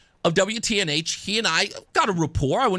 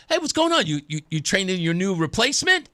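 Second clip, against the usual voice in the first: joking. Retold or imitated. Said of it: "I said jokingly".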